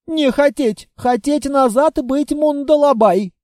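a stubborn warrior putting his foot down; mild insistent announcement; declaring. Acted. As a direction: stress on не, insistent demand. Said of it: "заявил Мундалабай".

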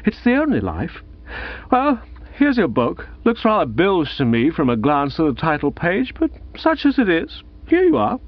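high, tipsy and chummy; tipsy jovial man. Acted. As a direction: hand it over with drunken cheer. Gussie hands over the book.

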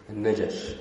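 "النجش" with a short a after the j; easier fatha form. Shown as a demonstration. Teacher recommending the easier reading, "النجش" as najash. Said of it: "والأسهل في النطق الفتح".

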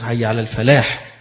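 الفلاح ending in a distinct breathy ح; الفلاح with its final ح clearly pronounced. Shown as a demonstration. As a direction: let the ح of الفلاح be heard. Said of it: "تتقن وتنطق بالحاء".

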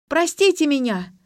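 high, loud call from another room; shouting from afar. A narrator's reading. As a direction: call out an apology down the corridor. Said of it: "закричала из глубины квартиры".

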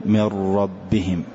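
"من ربهم", slow, with the ر clearly repeated; "من ربهم" with an audible double ر; audible trill. Shown as a demonstration. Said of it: "أن يظهر هذا التكرار في المسامع". ("من ربهم" ببطء مع إظهار تكرار الراء)

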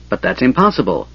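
a lightly strangled, tight voice. Acted. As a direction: push it out through a tight throat. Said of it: "he said in a strangled voice".

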